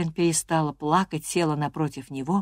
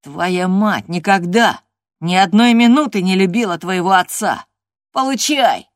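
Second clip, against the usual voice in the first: put-on gloating boy; 3 semitones higher, 9 dB louder than usual. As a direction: savour each word of the blow. Linton taunting.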